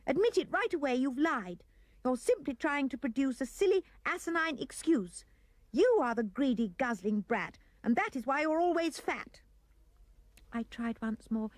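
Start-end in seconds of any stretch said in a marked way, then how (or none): 0.0-9.4 put-on mother scolding her boy for lying. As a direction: tell off the greedy child.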